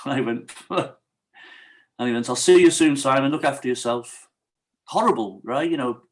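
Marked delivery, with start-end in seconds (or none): 2.3-4.3 mock his smug goodbye; patronising. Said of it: "arrogant, patronising".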